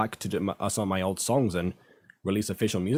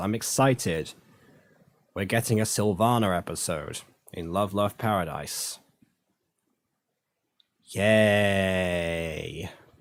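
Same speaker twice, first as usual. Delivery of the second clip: slow, sarcastic fake enthusiasm with drawn-out "yay". Announcing today's episode with a new relationship: sarcastic excitement. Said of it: "as you can tell by the tone of my voice".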